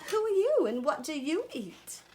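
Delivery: high crocodile question, lightly Australian; storybook Australian croc, pointed question; attempted Australian accent. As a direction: start high and come down, Australian-style. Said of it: "I tried to do my Australian accent".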